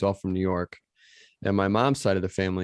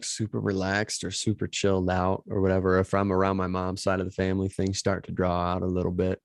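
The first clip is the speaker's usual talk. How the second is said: Southern twang; 4 semitones lower than usual. Shown as a demonstration. Co-host showing how mom's side talks, relaxed Southern accent. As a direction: draw it out with a little Southern twang. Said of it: "get a little bit of Southern twang".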